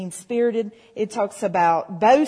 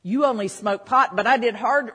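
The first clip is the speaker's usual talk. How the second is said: mock boast; 6 dB louder than usual. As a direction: show off like a proud sinner. Mocking a boastful sinner.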